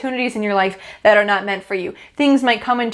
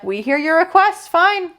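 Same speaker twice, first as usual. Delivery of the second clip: higher, knowing voice of the universe; universe granting the request; 7 semitones higher than usual. Acted. The universe grants Mark's request, knowing and raised. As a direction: answer like a patient cosmic power.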